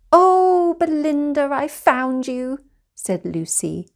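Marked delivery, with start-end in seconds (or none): 0.1-2.6 relieved delight. Acted. Lucy finds her sister.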